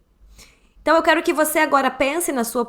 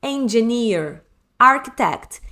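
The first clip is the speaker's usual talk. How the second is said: slow model word; slower than usual. Shown as a demonstration. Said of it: "por exemplo".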